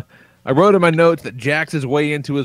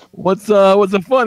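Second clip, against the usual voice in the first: higher, louder imitated asking; retold puzzled question; 7 semitones higher, 7 dB louder than usual. Dad asking his giggling son, raised questioning voice. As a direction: lift it into a curious question.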